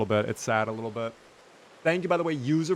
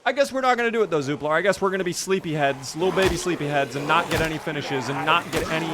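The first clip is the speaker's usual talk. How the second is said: loud, higher-pitched sarcastic scolding; mock-chiding; 3 semitones higher, 5 dB louder than usual. Real, not acted. Player scolding Zooplar for getting no finishes, mock-chiding.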